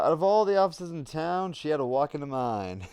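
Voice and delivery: put-on old Hollywood transatlantic accent, hard-boiled. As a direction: deliver it like a 1940s film detective in a transatlantic accent. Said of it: "very funny to do the transatlantic accent at all times".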